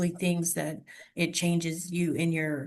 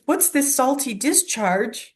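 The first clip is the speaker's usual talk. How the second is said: high, slow, baffled deadpan; puzzled sitcom quote; 6 semitones higher, slower than usual. Retold or imitated. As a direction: play the tear like a strange new substance. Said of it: "and he says".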